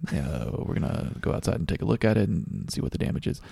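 breathy intercom pilot. Retold or imitated. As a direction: airline captain announcing calmly. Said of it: "That was a perfect pilot voice".

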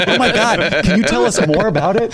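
high, gushing mock interest; mock amazement. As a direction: gush like a starstruck fan. Teasing mock fascination.

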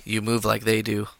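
robot voice. Pretend. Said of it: "That was pretty good".

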